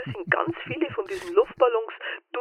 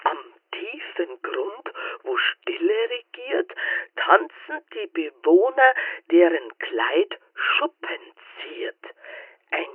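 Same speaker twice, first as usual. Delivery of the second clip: slow riddle reading; slower than usual. Acted. Reading a riddle poem slowly.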